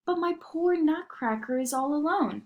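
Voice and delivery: put-on worried girl. A narrator's reading. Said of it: "thought Marie".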